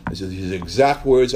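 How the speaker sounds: normal talking voice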